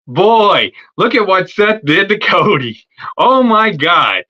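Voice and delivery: drawn-out, teasing disbelief; lightly hammed-up mock shock; mock amazement. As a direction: play up the astonishment, dragging out the last words. Acting out Roman mocking Cody's beating.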